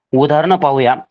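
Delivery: normal talking voice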